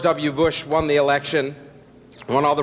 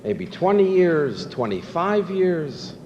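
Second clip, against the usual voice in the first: reflective; slower than usual. Retold or imitated. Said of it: "becomes a little reflective".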